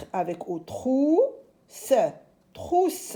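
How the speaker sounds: TROU drawn out, SE set apart, then TROUSSE; sounding out syllables. Shown as a demonstration. Teacher sounds out a word.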